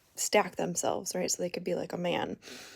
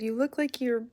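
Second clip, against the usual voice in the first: higher, louder, laughing through it; laughing reply; 4 semitones higher, 8 dB louder than usual. Retold or imitated. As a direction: crack up while you tell them. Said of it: "I said".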